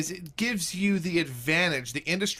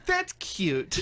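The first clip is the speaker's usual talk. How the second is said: high-pitched imitation of an unimpressed wife; imitating his wife; 12 semitones higher than usual. Husband quoting his wife's reaction to his jokes, high imitation. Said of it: "My wife just goes".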